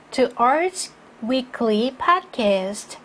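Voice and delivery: "To Arts Weekly Podcast" slow, then stop; measured phrase, resting after "Podcast"; full pause at end. Shown as a demonstration. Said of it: "두 번 충분히 쉬시자고 했죠". ("Podcast" 뒤에서 충분히 쉬기)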